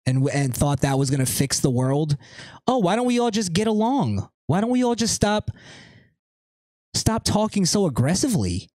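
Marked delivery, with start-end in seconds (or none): 2.7-8.7 high, mocking singsong voice; mock them in a pleading whine; mocking naive woman. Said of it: "Because some broad thought of it".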